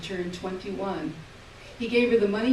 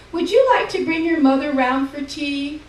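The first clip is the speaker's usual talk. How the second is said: put-on old Ma's voice; 8 semitones higher, 11 dB louder than usual. A narrator's reading. Ma and nurse voiced.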